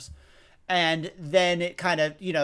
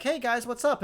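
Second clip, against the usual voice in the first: quoting Pete; 8 semitones higher than usual. Retold or imitated. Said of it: "And he's like".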